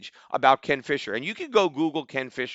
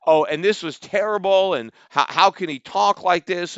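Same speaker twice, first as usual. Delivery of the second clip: mock outrage; 4 semitones higher, 4 dB louder than usual. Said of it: "and he said".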